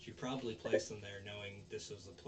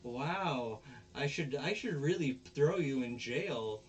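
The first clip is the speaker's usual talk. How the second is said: slow, somewhat higher, indignant; girl telling Onizuka off, slow and raised; mock scolding; 4 semitones higher, 4 dB louder, slower than usual. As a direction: scold him with put-on outrage.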